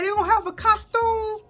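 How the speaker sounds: excited uncle. Retold or imitated. Uncle excited about the costume.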